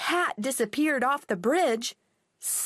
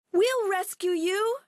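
put-on child voice; 9 semitones higher than usual. Girls call to dog.

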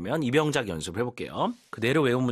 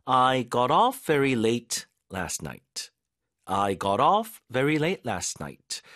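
slow model sentence; much slower than usual. Shown as a demonstration. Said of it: "이렇게 할 수 있겠죠".

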